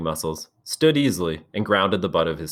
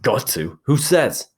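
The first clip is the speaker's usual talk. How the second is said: scornful; 7 semitones higher, 4 dB louder, slower than usual. Acted. Jack scorns Ralph's demand.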